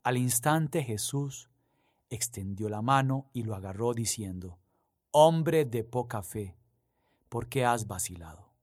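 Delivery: reading the Gospel aloud, measured and solemn; lectura solemne del Evangelio. Acted. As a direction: proclaim it to the congregation. (lectura del Evangelio, pausada y solemne)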